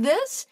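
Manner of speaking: "this" lifted high on a rising question tune; uptalk rise. Shown as a demonstration. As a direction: swing "this" up like a Valley Girl question. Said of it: "Valley Girls would talk like".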